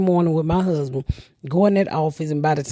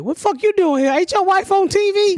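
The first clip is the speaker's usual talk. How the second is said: high put-on voice of nosy coworkers; lightly voiced teasing coworker; mock coworker tease; 11 semitones higher than usual. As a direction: needle him like the guys at the plant. Voicing husband's coworkers teasing.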